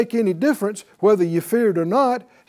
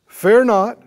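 Fear not, higher and louder; proclaimed loudly; 4 semitones higher, 8 dB louder than usual. Acted. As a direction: ring it out from the pulpit. Preacher proclaims Jesus' words.

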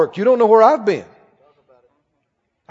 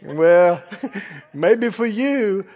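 scoffing skeptic; 4 semitones lower, 3 dB quieter, much slower than usual. Retold or imitated. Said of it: "people go".

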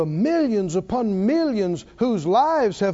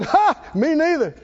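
laughing reply; 6 semitones higher, 3 dB louder than usual. Retold or imitated. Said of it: "He said".

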